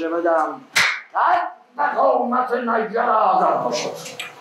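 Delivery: high, commanding royal voice; angry king. Acted. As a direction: order the prisoner away. The king questions and condemns.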